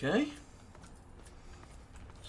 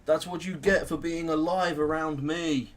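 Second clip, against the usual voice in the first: gloating taunt; 2 semitones higher, 4 dB louder, slower than usual. Real, not acted. Taunting ants being killed.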